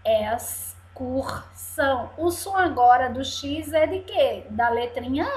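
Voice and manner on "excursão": slow "Excursão" in three pieces; syllable by syllable. Shown as a demonstration. Teacher repeats the three syllables, "Excursão" slowly split. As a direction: say "Excursão" as es, cur, são. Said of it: "Três sílabas".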